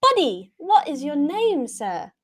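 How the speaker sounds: loud, high and eager; eager adventurer voice. Acted. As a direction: call out brightly to the innkeeper. Player in character addressing innkeeper.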